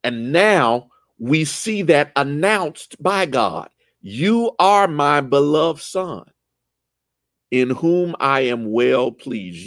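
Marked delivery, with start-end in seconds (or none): 4.0-9.6 slow, deliberate announcement; solemn voice of God. Retold or imitated. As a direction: proclaim it with reverence. God's words, slowed.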